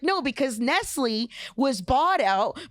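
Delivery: worked-up conspiracy rant; conspiracy theorist. Retold or imitated. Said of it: "I sound like a conspiracy theorist".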